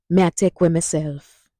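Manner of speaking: Jamaican Patois phrase at normal speed; Patois at normal pace. Shown as a demonstration. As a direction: say it naturally for the class to repeat. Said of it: "Say it with me now".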